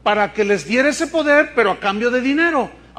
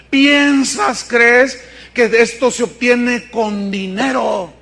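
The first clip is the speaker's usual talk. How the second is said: indignant question; 5 dB louder, much slower than usual. Acted. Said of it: "Pedro rebukes Simón".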